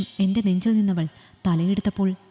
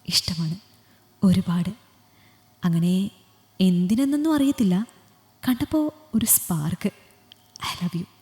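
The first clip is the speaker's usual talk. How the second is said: soft confession in her ear. Acted. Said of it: "ചെവിയിൽ പതിയെ പറഞ്ഞു".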